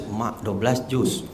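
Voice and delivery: low, slow, hushed reaction; daunted aside. Retold or imitated. Speaker retelling his shock at twelve juz, daunted. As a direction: drop the voice as the size sinks in.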